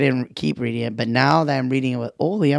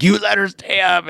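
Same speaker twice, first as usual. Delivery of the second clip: higher mock reproach; mild mock scolding; 7 semitones higher than usual. Mom scolding dad for a late night, mild mock scold. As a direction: scold lightly, imitating. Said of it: "I get yelled at the next day".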